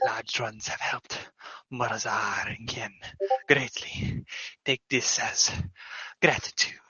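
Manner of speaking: soft, slow, hushed little kobold; a small creature murmuring its thanks. Acted. Kobold Morzar softly thanking the party, slow and hushed.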